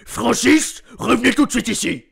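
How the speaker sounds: a lightly voiced stern colonel calling out, fast; a hint of the military school colonel summoning Francis; Colonel Spangler. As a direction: bark the order to come back at once, lightly done. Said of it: "Je suis le colonel Spangler dans Malcolm".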